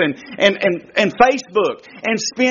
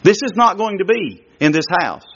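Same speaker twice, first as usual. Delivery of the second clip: stern father; 3 semitones lower than usual. Retold or imitated. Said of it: "when I'm upset with her".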